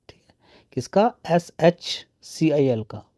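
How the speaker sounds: quick whispered question to himself; whispered aside. Real, not acted. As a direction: drop to a whisper for the rhetorical question. Rhetorical self-question to viewers. (फुसफुसाकर पूछा गया सवाल)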